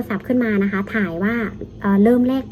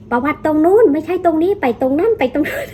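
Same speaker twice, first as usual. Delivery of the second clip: laughing mimicry; 7 semitones higher than usual. Mocking hospital runaround, laughing.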